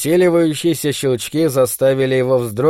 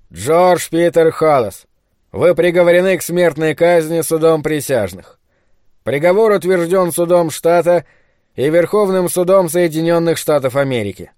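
formal pronouncement; 3 semitones higher than usual. A narrator's reading. Director reads out a death sentence.

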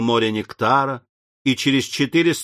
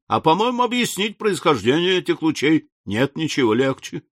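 higher-pitched, confident rebuttal; lightly voiced breezy Ardan, confident; 5 semitones higher than usual. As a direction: counter the objection with easy confidence.

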